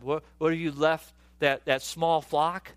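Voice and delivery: lightly acted sneering question, slowing at the end; belittling older brother. Older brother asking David about his flock, mock scornful. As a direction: draw out the last words in mock disdain. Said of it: "like David's older brother Eliab".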